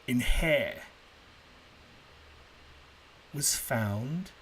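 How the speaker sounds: measured storyteller's delivery with swooping, suspenseful emphasis; story narration. A narrator's reading. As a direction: tell it like an old legend, pausing between phrases. Tells the second story to listeners.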